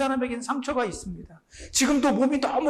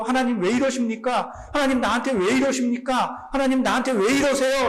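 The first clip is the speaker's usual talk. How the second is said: mock complaint building; 3 semitones higher than usual. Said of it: "불평하고 속상하고 괴로워서".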